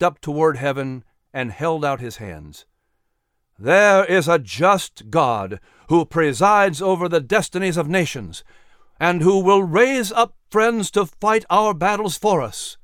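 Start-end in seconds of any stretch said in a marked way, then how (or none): 3.6-12.8 raised, declaiming patriot; a touch of fiery speech; orator Patrick. Acted. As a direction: proclaim it to the convention hall. Patrick orating in story.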